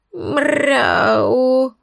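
высокое хрипловатое «мряу»; мяукни хрипло, откликаясь на зов; хриплое мяуканье. A narrator's reading. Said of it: "хрипловато отозвалась Хази". (хрипловатое «мряу»)

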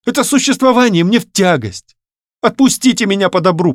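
put-on high, strained voice of a distressed young woman; young woman pouring out her grievances to him, high and strained; young woman's plea. Varya's long plea.

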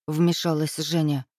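plain reading voice

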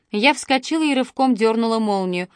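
ordinary delivery, nothing marked

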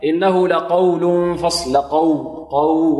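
slow recitation, heavy ق then thin و in لقو; light waw. Shown as a demonstration. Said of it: "والواو مرققة".

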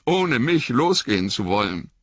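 high, hurt, shivering reproach; a wet hobbit stung by his master; Sam, cold and soaked, reproaching Frodo in a high voice. Acted.

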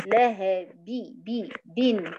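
لهب ending in -bin with a true i; clear kasra. Shown as a demonstration. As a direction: drill bi, bi, bin at the end of لهب. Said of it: "أقولها إزاي؟".

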